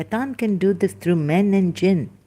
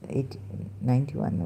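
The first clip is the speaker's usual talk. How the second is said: usual speaking voice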